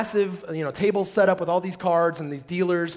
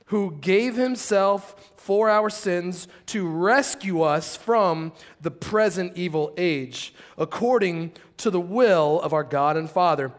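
slow, solemn Bible reading; scripture reading. Real, not acted. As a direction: lay each phrase down slowly and weightily. Reads Galatians aloud slowly.

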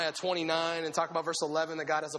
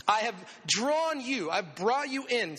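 tender; 4 semitones higher, slower than usual. Retold or imitated. God's voice, slowed.

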